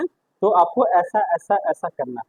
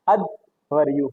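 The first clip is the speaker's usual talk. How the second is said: slow careful pronunciation; 4 semitones lower, much slower than usual. Shown as a demonstration. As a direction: say अध्वर्यु slowly, every syllable clear.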